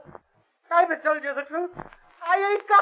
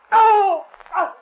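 high terrified scream; screaming in pain; 11 dB louder than usual. Acted. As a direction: cry out as the flame burns. Blackie tortured with matches.

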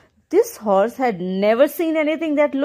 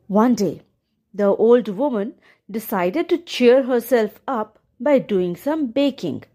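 gentle storyteller reading a fairy tale; story narration. A narrator's reading. Narrator telling the viewers a fairy tale, gentle storytelling. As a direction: read it like a bedtime story.

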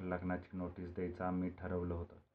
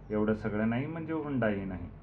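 louder, mildly peeved retort; somewhat irritated; 3 semitones higher, 7 dB louder than usual. A narrator's reading. Manorama reacting to a no-frills wedding, somewhat irritated. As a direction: let a touch of irritation lift the voice. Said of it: "काहीशा चिडक्या स्वरात म्हणाली".

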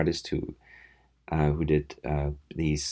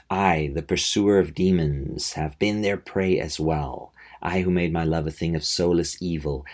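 lightly dramatised vampire monologue, measured phrasing; understated theatrical reading, drawing out key phrases; Andrew Bennett. Acted. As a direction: read it as a solemn origin speech. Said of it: "in his brief monologue describing his".

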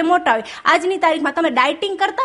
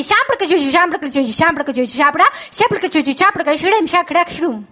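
mock gibberish. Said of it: "repeat કરું".

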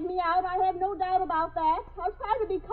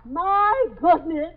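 repeating louder; 3 semitones lower, 4 dB louder, much slower than usual. Acted. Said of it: "I said".

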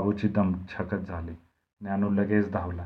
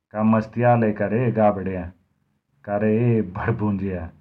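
louder, furious yell; angry shout; 5 dB louder than usual. Acted. Babu the oil-presser yells at Harya, angry and loud. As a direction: bark it out at the cheeky boy. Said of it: "तो ओरडला".

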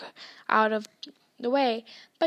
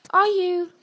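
amazed; 6 semitones higher, 7 dB louder than usual. A narrator's reading. Twin amazed question.

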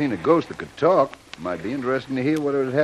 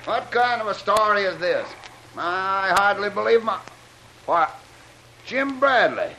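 raised pitch, halting disbelief; astonished; 5 semitones higher than usual. Acted. Captain recognising Jim Bradley, astonished. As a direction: break off in amazement, then exclaim.

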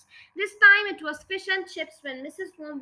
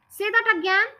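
stunned demand; 7 semitones higher, 6 dB louder than usual. Acted. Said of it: "He became very quiet".

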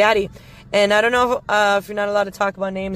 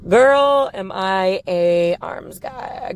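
gushing; much slower than usual. Real, not acted. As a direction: swoon over his arms. Gushing over a man's arms.

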